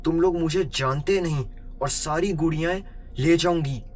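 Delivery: high-pitched indignant threats; moderately heated scolding, short of a real scream; acted angry yell. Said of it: "वो गुस्से से चीखते हुए बोली".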